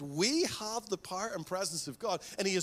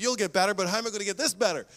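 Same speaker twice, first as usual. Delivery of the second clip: joking complaint; 5 dB louder, faster than usual. Retold or imitated. Retort after cousins wrecked quad.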